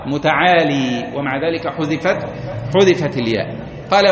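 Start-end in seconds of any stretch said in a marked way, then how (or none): 0.1-1.1 متعالي slowly with the final ya; original form. Shown as a demonstration. Teacher giving the original form slowly. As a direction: say متعالي keeping the ya. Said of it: "أصلها".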